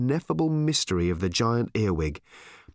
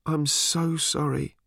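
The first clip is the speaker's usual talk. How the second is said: sobbing; 5 semitones higher, slower than usual. Acted.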